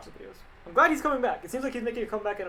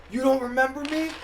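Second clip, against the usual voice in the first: higher-pitched mock movie villain; imitating Electro; 6 semitones higher than usual. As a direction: put on a high questioning character voice. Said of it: "Electro's like".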